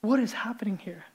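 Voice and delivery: hushed whisper of mock alarm; whispered aside. Preacher whispers to the congregation in mock alarm. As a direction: breathe it out like a shocked secret. Dramatic aside after the hell line.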